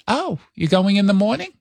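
light New York-accented mom impression; mock motherly questioning, New York accent; mother's New York accent. Mother asks son about his trip, light New York accent. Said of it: "talks like this all the time".

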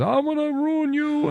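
a hint of a demonic threat; mock demon snap. Host imitating caller's demon personality snapping, mildly menacing. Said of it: "he snaps and says".

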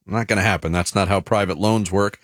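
smooth radio sponsor read. Acted. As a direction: sell it like a host endorsement. Reads sponsor ad.

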